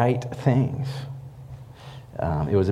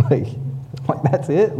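high, disbelieving question; can't believe the call ended; incredulous; 9 semitones higher than usual. Retold or imitated. After dad hangs up, a high incredulous question.

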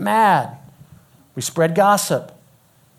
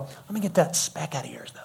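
soft mock-helpful aside; sly meddling; 8 dB quieter than usual. Hypocrite to a brother about his eye, sly meddling. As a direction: offer it quietly, like a meddler.

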